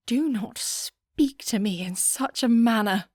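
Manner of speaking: hissed in an angry whisper; cold rage kept under the breath; mock-outraged lady whispering her fury; furious whisper. After slapping a rude suitor.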